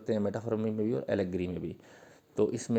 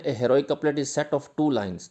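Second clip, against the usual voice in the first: slow dictation; 3 semitones higher, 5 dB louder, much slower than usual. Shown as a demonstration. Dictating English definition to students.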